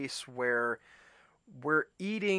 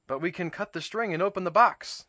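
Toad voice; 5 semitones higher, 5 dB louder, faster than usual. A narrator's reading. Toad objects again.

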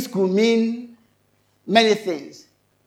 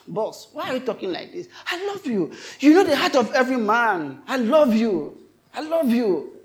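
hurt, pleading protest, pitched up; disappointed, higher-voiced appeal without shouting; grieved Peter; 3 semitones higher than usual. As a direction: plead as if wounded at being doubted. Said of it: "Peter became so disappointed, angry, like, grieved".

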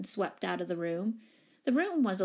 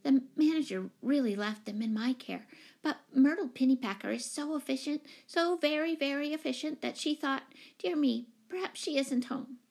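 high, fussy, earnest explaining; 6 semitones higher than usual. A narrator's reading. Timid tenant explaining who has the keys, earnest. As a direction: earnestly justify yourself in a raised voice. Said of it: "she went on earnestly".

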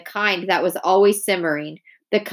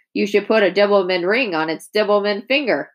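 hysterical. Acted. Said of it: "kind of hysterical now".

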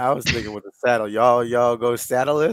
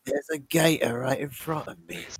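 softer mock Australian, sliding toward British; attempted Australian accent; 5 dB quieter than usual. Guest spotting a gator, mock Australian accent. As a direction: have a go at Australian, landing near British. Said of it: "that's, that's British".

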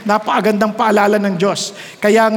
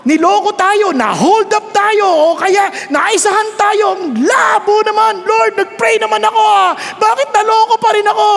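complaining believer; 8 semitones higher, 4 dB louder than usual. Acted. Voicing a cheated believer.

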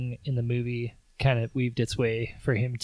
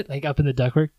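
laughing through the words, faster; faster than usual. Real, not acted. Retelling the ductwork joke while laughing. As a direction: giggle the phrase quickly. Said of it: "repeated while laughing".

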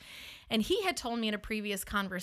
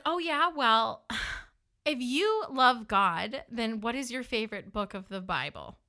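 challenging comeback. Retold or imitated. Woman testing her date's faith, challenging. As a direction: challenge him, then drop into a quizzing question.

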